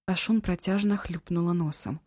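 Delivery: usual speaking voice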